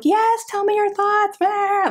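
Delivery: high, slow, sing-song mock eagerness; eager mock voice. Book fan to readers, high sing-song mock eagerness. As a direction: play the overeager fan begging for opinions. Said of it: "I'm like".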